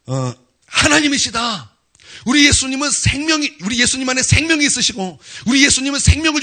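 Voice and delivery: loud, high, ringing proclamation; full-force preaching. Acted. Preacher to congregation, proclaiming in full force. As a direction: preach it like thunder.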